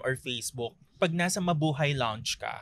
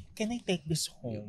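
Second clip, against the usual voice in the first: slow, softer question; discreet request; 8 dB quieter, slower than usual. Acted. Passenger asking flight attendant for the amenity kit, softly. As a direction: ask slowly and softly.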